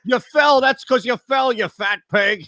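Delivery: high, loud furious coach yell; angry yell. Retold or imitated. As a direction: scream it at the ref. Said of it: "He's yelling at him".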